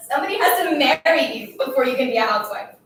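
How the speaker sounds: loud, overwrought tirade; tearful scolding. Acted. Girl haranguing her silent classmate while crying, tearful scolding. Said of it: "I couldn't stop crying and talking at the same time".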